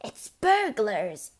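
urgent, drawn-out stage hiss; hissed alarm. A narrator's reading. Mother warns the family of burglars, hissing. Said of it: "hissed the mother".

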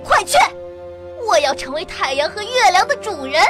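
high, furious order; shrill shout. Acted. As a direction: scream the demand. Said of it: "瞪着渔夫喊叫起来".

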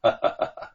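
a light breathy chuckle; soft chuckle. Acted. Li Chunfang amused by the two friends, soft chuckle. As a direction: chuckle quietly before speaking. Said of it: "李春芳微笑着说".

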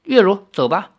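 high, lightly amused giving in; smiling concession. A narrator's reading. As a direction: concede with a smile, pitch lifted. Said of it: "李逍遥笑着说".

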